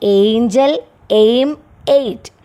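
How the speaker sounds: ഏഞ്ചൽ, എയിം, എയ്റ്റ് with the opening "ay" glide drawn clear; example words for എ. Shown as a demonstration. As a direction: say ഏഞ്ചൽ, എയിം, എയ്റ്റ് separately, showing the "ay" sound. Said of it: "എ എന്ന് പറയുന്ന സൗണ്ടിൻ്റെ എക്സാമ്പിളാണ്".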